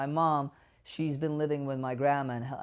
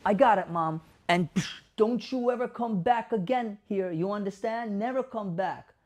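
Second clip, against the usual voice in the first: hammed-up scolding of an invisible ghost; theatrical banish-the-ghost voice; mock shooing the ghost; 4 semitones higher than usual. Shown as a demonstration. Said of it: "validation therapy".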